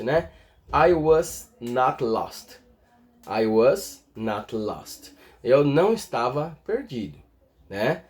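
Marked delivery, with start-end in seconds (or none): 0.7-2.6 slow, careful I was not lost; teacher's slow read of the example; slow model sentence. Shown as a demonstration. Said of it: "separei alguns exemplos". 3.3-5.2 slow repeat of I was not lost, lower; teacher repeating the model. Shown as a demonstration. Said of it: "demo repeat".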